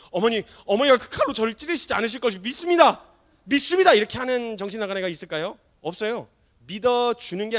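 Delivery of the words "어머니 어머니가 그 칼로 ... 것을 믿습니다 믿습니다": mock fervent profession. Child kneeling before knife-holding mother, mock fervent profession of faith. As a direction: declare faith like a kneeling devotee, hammed-up. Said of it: "일어나 무릎 꿇고 앉아가지고".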